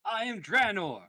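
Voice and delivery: proud declaration. Acted. Elf boy declares name.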